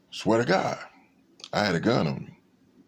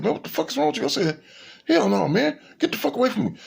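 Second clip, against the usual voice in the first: retold angry yell; 14 semitones higher, faster than usual.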